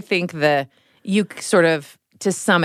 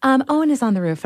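put-on higher, faster matter-of-fact kid voice; polite little boy; 6 semitones higher, faster than usual. Boy calmly telling mom his brother's on the roof, higher. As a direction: calmly report like a prim three-year-old. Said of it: "that's how he talked".

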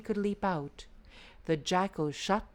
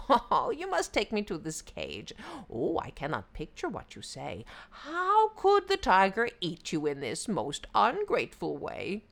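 lightly voiced sly jackal; playing dumb, sly and sweet; 3 semitones higher than usual. Jackal voice in the story.

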